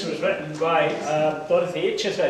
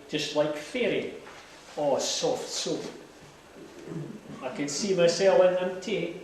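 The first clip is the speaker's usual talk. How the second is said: reciting a poem in broad Scots; lilting Scots verse recitation; broad scottish accent; 3 semitones higher than usual. Acted.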